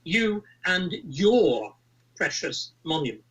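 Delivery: abrasive, aggrieved posh woman, slow and drawn out; whiny upper-class voice. Retold or imitated. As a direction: do a whiny entitled posh girl. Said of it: "a slightly abrasive, whiny, whinny, aggrieved, upper-class voice".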